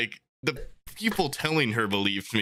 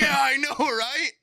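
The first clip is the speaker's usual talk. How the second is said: mock bro; 13 semitones higher than usual. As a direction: play the friendly classmate agreeing. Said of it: "they're like".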